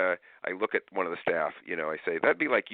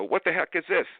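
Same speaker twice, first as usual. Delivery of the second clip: 1 mock outrage; 10 semitones higher, 4 dB louder than usual. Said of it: "get upset and go".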